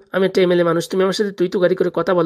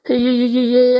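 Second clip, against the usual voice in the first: placating chuckle through the words; nervous laugh; 3 semitones higher, 3 dB louder than usual. Acted. Husband laughs nervously to soothe his angry wife. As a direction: laugh it off to calm her down.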